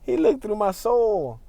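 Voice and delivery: high laugh then slow, amused line. Real, not acted. Driver laughing after a man stared at him.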